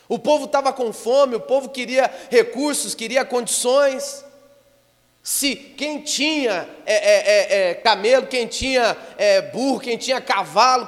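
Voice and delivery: high, loud, impassioned sermon voice; fiery preaching. Acted. Pastor preaching the famine scripture at full force.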